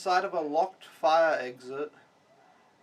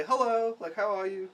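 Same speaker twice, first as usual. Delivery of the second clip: imitating a polite hello, pitched up; polite greeting; 4 semitones higher, 4 dB louder than usual. Caught foreigners greeting the man at the door, mock-polite. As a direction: put on a higher, courteous greeting. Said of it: "we just politely say".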